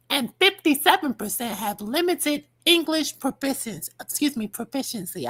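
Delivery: talking around a retainer; words slurred by a retainer; wearing a retainer. Real, not acted. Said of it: "I have my retainers in".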